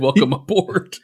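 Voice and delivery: skeptically mimicking the line as if questioning it; doubtful Aquaman quote. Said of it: "I don't think Aquaman has ever said".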